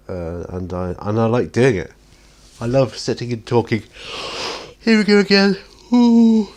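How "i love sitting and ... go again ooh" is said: real yawn, much higher and louder; yawning "Ooh" rising high and loud. Real, not acted. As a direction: caught by a huge yawn mid-sentence. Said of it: "sorry, I do apologise".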